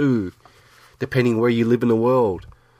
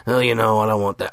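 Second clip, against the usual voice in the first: lightly put-on lower voice; slightly lowered voice, mild mimicry; Lewis; 4 semitones lower than usual. Cohost mimics Lewis refusing to have him on, light impression. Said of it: "I'm trying to do my best Lewis impression".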